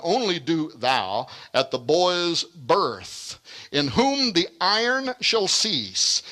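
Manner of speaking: slow, measured reading of archaic verse; stately, oracular reading; prophecy recitation. Acted. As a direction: recite it like ancient verse, drawing out the line endings. Reads an ancient prophecy aloud.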